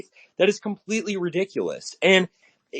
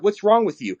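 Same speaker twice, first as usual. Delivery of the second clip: lightly whiny, mocking a scolding critic; a hint of a scandalized commenter; 5 semitones higher than usual. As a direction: parrot the critic's outrage. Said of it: "in my comment section".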